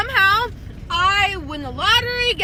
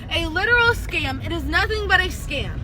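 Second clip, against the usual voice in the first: lisping around a healing tongue ring. Real, not acted. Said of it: "sorry about my lisp. My tongue ring is still healing".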